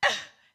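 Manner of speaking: sudden loud grunt; mock tantrum noise; imitated child's outburst. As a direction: explode in one short high burst. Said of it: "She would go".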